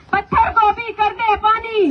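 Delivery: roaring rallying speech. Acted. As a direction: lead the crowd chant at full voice. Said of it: "आप लोग मेरे साथ नारा लगाना".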